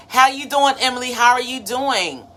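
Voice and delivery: high, bright hello to a viewer; light up as you spot a friend in the chat; cheerful greeting. Real, not acted. Host calling out to a viewer in the chat, happy and high.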